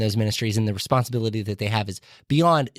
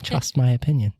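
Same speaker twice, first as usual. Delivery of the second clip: Amish accent. Shown as a demonstration. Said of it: "That was my best Amish accent".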